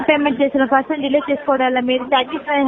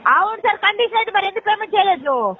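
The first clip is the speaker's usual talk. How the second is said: higher, pushing voice at the customer; raised voice; 4 semitones higher than usual. Real, not acted. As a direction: press him hard for the missed payment. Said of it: "ఎందుకు అరుస్తున్నావు?".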